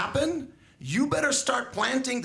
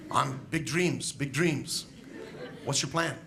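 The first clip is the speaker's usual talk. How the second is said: laughing mock kid; 4 semitones lower, slower than usual. Mocking the kids' vague answer.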